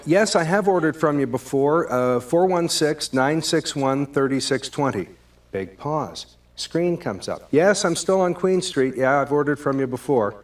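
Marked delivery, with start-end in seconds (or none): 0.1-5.1 patient version. Shown as a demonstration. Caller patiently giving his number to the pizza guy, friendly. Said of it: "the second version of that". 7.5-10.4 brighter, cheerful confirmation; patient and friendly. Shown as a demonstration. Caller cheerfully confirming his address to the pizza guy. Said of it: "the second version of that".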